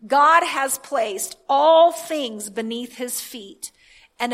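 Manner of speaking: deliberate proclamation, leaning into each phrase; emphatic scripture reading. Real, not acted. Preacher reads another translation to the congregation, emphatic proclamation. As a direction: declaim it with weight on key words.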